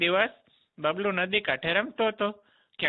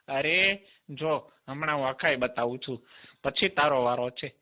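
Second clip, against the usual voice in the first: low demon voice; 4 semitones lower than usual. Acted. Demon insists after broken teeth.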